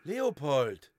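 LEOPOLD with the pitch dropping at the end; falling call. Acted. A voice names the musing "Leopold", falling call. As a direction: let "Leopold" fall away as a statement. Same name, falling tune.

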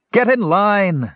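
high, slow scream of an order. A narrator's reading. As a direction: yell it at the ragged line. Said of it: "screamed Perion".

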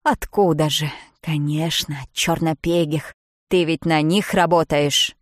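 loud, scornful accusing; angry accusation. Acted. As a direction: hurl the accusation at her. Bridget accuses narrator. (гневное обвинение, громко)

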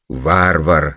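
mock shout. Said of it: "закричал Пётр Иванович".

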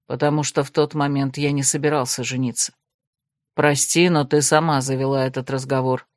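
low, even voice of a reserved man; lightly voiced cool necromancer; calm male necromant. Desmond corrects Krasimirka, coolly low.

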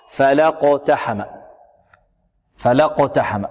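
"فلقتحم" joined slowly, short la into qaf; open lam into qaf. Shown as a demonstration. Teacher models joining, "فلقتحم" with open lam meeting qaf. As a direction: link the la of "فلقتحم" straight onto the qaf. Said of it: "اللام المفتوحة في القاف".

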